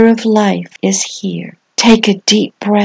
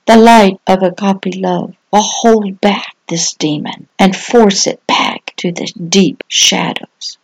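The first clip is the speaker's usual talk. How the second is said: dramatic devotional reading. Acted. Pastor telling little ones to flee the demon, solemn preaching. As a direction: proclaim it like a sermon story.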